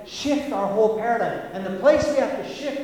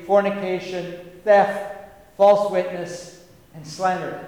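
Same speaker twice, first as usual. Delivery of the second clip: forceful list; 6 dB louder than usual. Shown as a demonstration. Quoting Jesus, listing sins forcefully.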